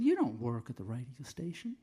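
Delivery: mock southern security guard, rising at the end; southern accent. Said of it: "he said in a southern accent".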